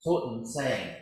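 solemn liturgical reading of the Gospel; scripture reading. Acted. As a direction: proclaim each beatitude with weight. Gospel reading in church service.

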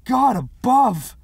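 a huge startled cry stretched long; unbelievably loud yell. A narrator's reading. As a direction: bellow it to the heavens. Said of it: "yelling in an unbelievably loud voice".

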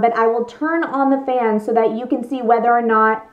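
speaking inside enclosed visor; talking inside a helmet. Real, not acted. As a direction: voice muffled by helmet. Seen 1: Clear face-covering helmet worn on the head throughout; absent in references.

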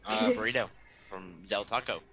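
chewing while talking; words through a mouthful of food; mouth full. Real, not acted. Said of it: "eating right now".

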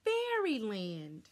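usual speaking voice

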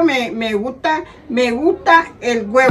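stumbling, deliberate read-aloud; slow reading. Shown as a demonstration. Mother trying the slogan for camera, slow reading. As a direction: read slowly, restarting the words. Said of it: "léelo lento y mirando la cámara".

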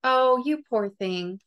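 slow, pitying "Oh, you poor thing"; mock sympathy. Imitating a sympathizer pitying a hurting friend, slow and syrupy. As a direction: lay the pity on a bit thick.

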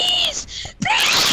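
high-pitched, pleading whine; desperate begging. Real, not acted. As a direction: beg desperately to get it back. Begging for items back.

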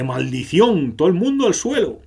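loud, high warning shout; surprised alarm. Acted. Fina warns everyone to drop to the ground, in a loud alarmed shout. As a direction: yell at everyone to hit the floor. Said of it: "como sorprendida del mundo".

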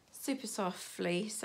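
ordinary talk

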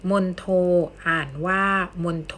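มนโท read "mon-tho", with aspirated t. Shown as a demonstration. Teacher reading an example to students, มนโท with aspirated t. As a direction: say มนโท with an airy t on the second syllable. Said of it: "อ่านออกเสียงทอกันบ้าง".

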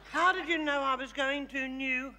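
lightly shown New Zealand accent. Shown as a demonstration. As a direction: model the Kiwi line for her. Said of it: "You say".

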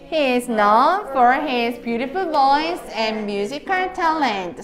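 slow, evenly paced model sentence; read-aloud for class. Shown as a demonstration. Teacher leading students reading a sentence, slow and measured. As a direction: draw the words out for learners to join in. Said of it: "자, 읽어보자".

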